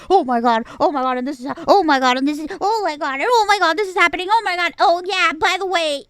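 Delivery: mock frantic. Reviewer mocking the film's frantic tone, hammed-up panic. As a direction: parody the movie's breathless panic. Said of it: "really frantic".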